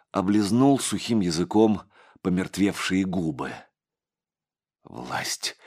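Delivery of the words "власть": slow, hushed, much softer and lower; whisper. A narrator's reading. Monk answers his torturer, whispering slowly. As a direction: recall the words slowly in a hush. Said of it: "прошептал он".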